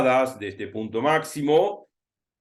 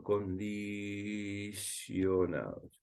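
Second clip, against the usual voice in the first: stretched out; 4 semitones lower, 12 dB quieter, much slower than usual. Shown as a demonstration. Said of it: "hay que alargar un poquito".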